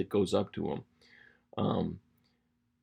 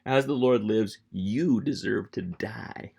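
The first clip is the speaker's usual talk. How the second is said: loud opening, slowing into a drawn-out verdict; emphatic accusation, punched then stretched; lipjacking; 5 dB louder, slower than usual. Acted. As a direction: pronounce a taunting sentence on him. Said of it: "just lipjacking Abner".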